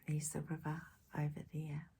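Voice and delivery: put-on soft whispered aside to the child. Shown as a demonstration. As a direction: whisper like sharing a secret. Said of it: "aside to the listening child".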